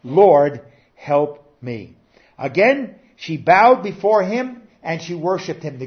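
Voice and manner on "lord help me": louder plea. Acted. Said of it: "but now she says".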